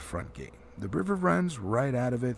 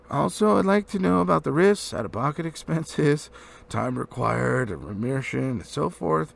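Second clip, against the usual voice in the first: louder, firm businesslike tone; business manner; 3 semitones higher, 5 dB louder than usual. Acted. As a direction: put on a crisp business voice. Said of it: "putting on his business manner".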